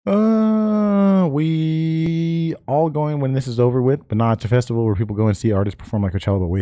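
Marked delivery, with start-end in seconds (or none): 0.1-4.1 put-on Cholo accent. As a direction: drawl it out Cholo style. Reads chat in cholo voice.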